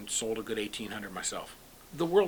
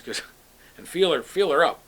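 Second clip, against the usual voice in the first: laughing through the punchline; 5 semitones higher, 9 dB louder than usual. Retold or imitated. Retold joke, laughing.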